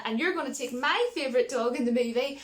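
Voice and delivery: worked-up, half-comic protest; indignant rant. Real, not acted. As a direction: let the outrage climb and burst out. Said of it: "going off in a bit of a rant".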